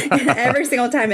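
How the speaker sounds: talking fast through a giggle; laughing. Real, not acted. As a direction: let the laugh carry the words. Melting at forehead touches.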